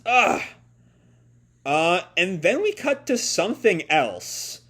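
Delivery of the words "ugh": short, high frustrated "ugh"; annoyed grunt. Acted. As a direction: grunt like a cornered kid. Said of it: "Ellie grunts".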